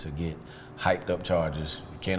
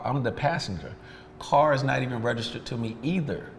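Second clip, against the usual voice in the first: higher, insistent, stressing each point; rising indignation, pitched up; heated protest; 4 semitones higher than usual. Real, not acted. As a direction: press the case like a lawyer who's fed up. Arguing his innocence heatedly.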